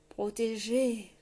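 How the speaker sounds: slow, croaked single word; croaking grey man. A narrator's reading. Grey man croaking his warning to the king. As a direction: croak it out slowly like a spectre. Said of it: "croassa l'homme gris".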